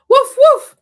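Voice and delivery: high, loud playful woof; dog bark. Pretend. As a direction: yip like a little puppy. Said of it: "No, it says woof, woof".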